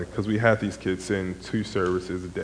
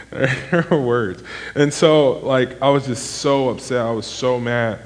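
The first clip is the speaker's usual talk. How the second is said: heated; 4 semitones higher, 6 dB louder, slower than usual. Real, not acted. Retelling his angry rant.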